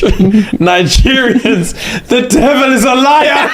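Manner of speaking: high, slow, shouted proclamation, laughing into it; mock declaration. Comedian to viewers, mock-shouting a preacher's rebuke. Comic exclamation closing the sketch.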